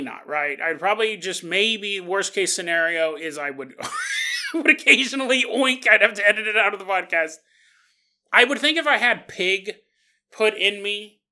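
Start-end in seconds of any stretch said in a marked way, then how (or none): 4.5-6.8 bursting into a loud laugh on the punchline; cracking up, louder and higher; laughing shout. Real, not acted. Joking about oinking on podcast.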